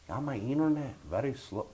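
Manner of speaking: a mock Asian accent in a thin put-on voice; complaining neighbor in a mock Asian accent. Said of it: "Why are you going Asian?".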